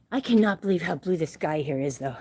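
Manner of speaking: panting between words, out of breath. Real, not acted. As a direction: talk while still catching breath. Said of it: "I am breathing so heavy".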